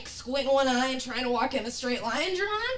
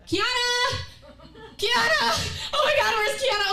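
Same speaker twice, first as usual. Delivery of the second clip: higher, louder frantic calls; mock frantic calling; 11 semitones higher, 4 dB louder than usual. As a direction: shout her name across campus. Calling lost friend.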